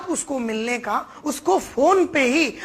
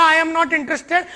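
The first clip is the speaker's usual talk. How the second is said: curt customer refusal; 4 semitones higher, much slower than usual. Retold or imitated. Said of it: "पहला dialogue तो उसने मारा".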